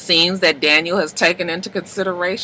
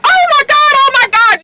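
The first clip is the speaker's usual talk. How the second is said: retold scream; 7 dB louder than usual. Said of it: "screaming like".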